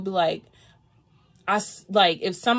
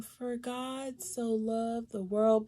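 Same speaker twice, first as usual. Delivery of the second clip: soft, slow and timid reading; timid mouse; 3 semitones higher, 7 dB quieter, much slower than usual. Retold or imitated. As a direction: read it meekly like a timid mouse. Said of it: "like a little timid mouse".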